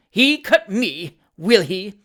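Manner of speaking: high, loud, drawn-out outrage; screaming rage. A narrator's reading. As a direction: seethe aloud as a scorned spinster. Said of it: "trembled with rage and disappointment".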